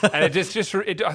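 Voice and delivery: high laugh spilling into words. Real, not acted. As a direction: still cracking up while talking. Laughing at friend's joke.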